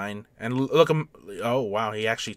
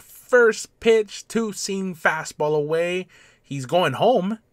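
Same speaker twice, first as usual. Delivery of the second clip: excited play call; 6 semitones higher, 5 dB louder, slower than usual. Real, not acted. Calling a live play.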